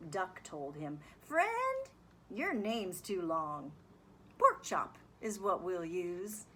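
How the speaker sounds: lively, sing-song picture book reading; reading to children. A narrator's reading. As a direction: read it like story time for kids. Teacher reads picture book aloud.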